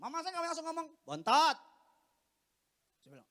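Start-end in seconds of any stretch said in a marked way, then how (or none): 1.1-1.6 loud, rising one-word retort; mother calling him out. Acted. Mother seeing through her son's prank, loud call. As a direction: cut in loudly with a knowing call. Mother instantly recognises son on phone.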